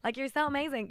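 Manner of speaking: imitation of an American admirer; American accent. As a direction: gush lightly in an American accent. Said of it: "this is my American accent".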